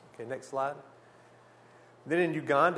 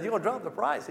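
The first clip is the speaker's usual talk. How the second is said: incredulous question, much higher, rising at the end; surprised; 7 semitones higher, faster than usual. Retold or imitated. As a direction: echo it back in disbelief. Incredulous echo of seller's offer.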